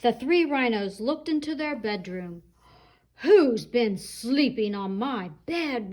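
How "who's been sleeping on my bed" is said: slow, mildly booming papa rhino; great big Daddy Rhino voice. Acted. Daddy Rhino looking at his bed, slow mild roar. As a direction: draw it out big and heavy like a rhino dad. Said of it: "roared Daddy Rhino in his great big voice".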